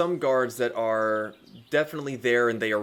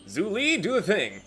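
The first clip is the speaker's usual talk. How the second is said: mock command; 10 semitones higher, 5 dB louder than usual. Quoting cartoon line at laptop.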